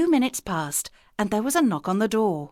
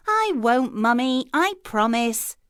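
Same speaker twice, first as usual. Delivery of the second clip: put-on little girl's promise; 4 semitones higher, 3 dB louder than usual. A narrator's reading. Little girl answers mother.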